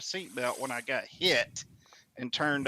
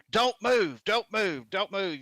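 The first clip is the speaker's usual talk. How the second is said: urgent warning; 6 semitones higher, slower than usual. Retold or imitated. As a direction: warn a crash victim to stay still. Bystanders warning crash victim.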